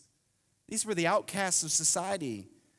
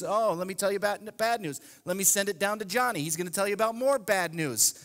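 mock newscaster; 2 semitones higher than usual. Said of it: "You look at the news".

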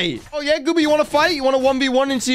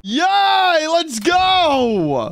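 excited cheer; 4 semitones higher, much slower than usual. Acted. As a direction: cheer like you already won. Hears he can beat bully.

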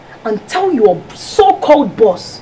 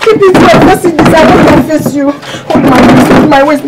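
bossy scolding; 3 semitones higher, 5 dB louder than usual. Acted. Wife bossing husband.

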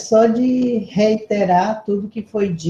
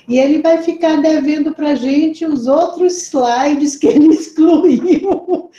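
higher-pitched, laughing tease; joking complaint that dissolves into laughs; teasing through laughter; 6 semitones higher than usual. Real, not acted. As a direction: tease him, breaking into laughter. Teasing speaker about cut slides.

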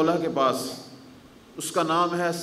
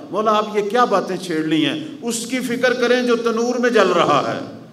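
loud, higher agitated outburst; retold cry out; 6 semitones higher, 6 dB louder than usual. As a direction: cry out in alarm for the man in the fire. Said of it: "آخر چیخ کے بولا". (اونچی، گھبرائی ہوئی چیخ)

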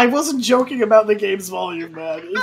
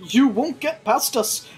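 higher, lightly acted rallying voice; defiant townsfolk; 6 semitones higher than usual. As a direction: stand up to soldiers in a raised pitch.

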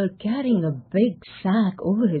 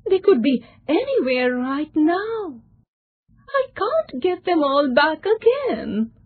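despairing; 7 semitones higher than usual. A narrator's reading. Young man's rising despair.

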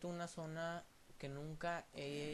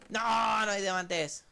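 no, lento y más fuerte, desesperado; grito decepcionado; 3 semitones higher, 10 dB louder, slower than usual. Real, not acted. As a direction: lamento exagerado y alargado. Decepción al no hallar diamantes. (grito de decepción)

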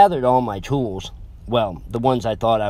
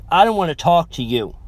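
higher, louder curt brush-off; hasty; 6 semitones higher, 5 dB louder than usual. A narrator's reading. Upset girlfriend brushing off her boyfriend, hasty and curt. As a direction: push him away quickly. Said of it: "hastily said".

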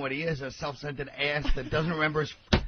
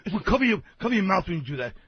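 retold scolding that builds louder, then eases; imitated cursing out; 4 dB louder than usual. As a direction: act out his disgusted telling-off. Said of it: "starts cursing me out".

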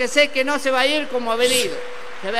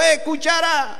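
"hey" call, mildly raised; mock calling shout; 3 semitones higher, slower than usual. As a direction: call out after someone walking ahead. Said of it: "Y le grita de nuevo".

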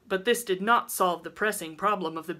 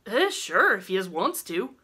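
easygoing country consent; amiable; 3 semitones higher, 6 dB louder than usual. A narrator's reading. Old woman lets Rilla take the baby, amiable. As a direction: agree readily in homely dialect. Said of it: "said Missus Conover amiably".

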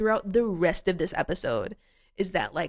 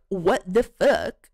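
mock outraged exclaim; 6 dB louder, much slower than usual. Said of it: "both of the women are like".

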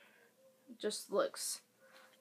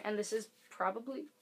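hiccuping between words; hiccups. Real, not acted. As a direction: talk through the hiccups. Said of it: "I have the hiccups".

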